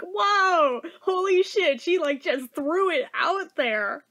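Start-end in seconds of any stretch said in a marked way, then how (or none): 0.0-1.8 slow stunned whoa, voice up; reacting in disbelief to the mama bear; shocked. Real, not acted. Shocked, drawn-out disbelief.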